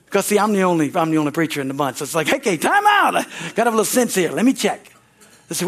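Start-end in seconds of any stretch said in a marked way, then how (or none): 2.3-4.8 1 time out call. Retold or imitated. Calming siblings again.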